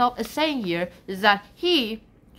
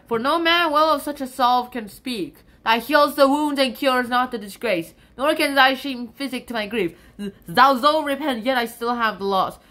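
poem recitation; 4 dB louder than usual. Acted. Resumes reading the sonnet.

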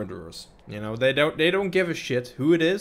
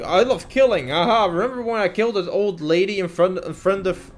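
mock them bragging about their kills; a hint of a bloodthirsty braggart; mocking gleeful killer. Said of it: "you know, they're all like".

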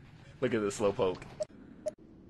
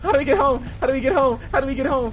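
half-laughing panicked screams, much higher; being chased; 12 semitones higher, 10 dB louder than usual. Real, not acted. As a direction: shriek for help, laughing. Monster attacking, screaming and laughing.

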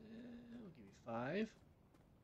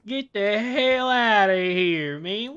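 loud, slow, stretched out disbelief; excited shout; 6 semitones higher, 13 dB louder, much slower than usual. Real, not acted. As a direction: yell it out, amazed. Disbelief at finding peanuts.

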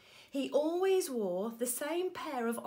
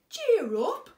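1 hearty cheer; 8 semitones higher, 10 dB louder than usual. A narrator's reading. George comforting giraffe.

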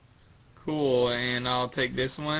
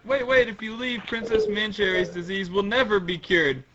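higher-pitched urgent character voice; pleading guard; 7 semitones higher, 4 dB louder than usual. Acted. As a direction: warn them before they leave. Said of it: "They're like".

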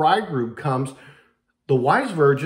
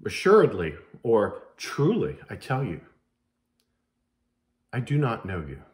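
bridegroom's flat refusal; 5 semitones lower than usual. Acted. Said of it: "The bridegroom just simply says".

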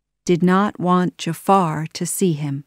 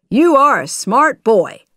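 high, loud, delighted praise; happy; 6 semitones higher, 7 dB louder than usual. A narrator's reading. Genie praises Aladdin for his trick, happily. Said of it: "the genie said happily".

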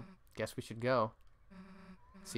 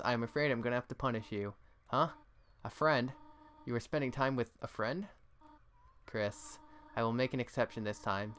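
motherly scolding that settles; a worried mom who softens and forgives; mother phoning her late child, first alarmed then gentle; fretting mother on phone. Acted.

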